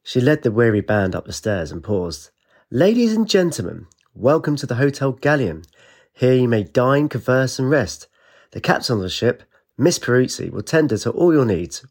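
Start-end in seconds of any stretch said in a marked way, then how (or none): 2.7-11.9 high, bright-eyed host announcement; lightly hammed-up hotel welcome; welcoming hostess. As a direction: greet the guests like a grand hostess. Hostess welcoming guests aboard.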